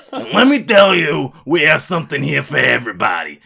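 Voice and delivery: big projected salesman voice; brash pitchman character. Acted. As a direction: belt it out like an over-the-top ad. Retakes the promo.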